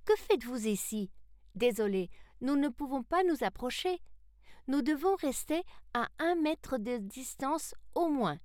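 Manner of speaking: put-on high-pitched boy calling across; young Salem, friendly caution. Salem asks visitors to keep their distance, high boy's voice. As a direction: pitch it up like a boy keeping others back.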